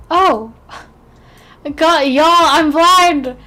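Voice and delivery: loud, high laughing cry of embarrassment; embarrassed laughing. Real, not acted. Embarrassed, can't find character.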